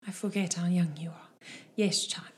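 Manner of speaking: a hint of a patient elder seamstress; lightly voiced seamstress. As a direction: answer the child in light character. Game master voices the seamstress.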